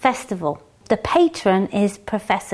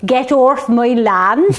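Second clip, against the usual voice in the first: angry farmer shout; 6 dB louder, slower than usual. Pretend. Joking angry farmer chasing pickers.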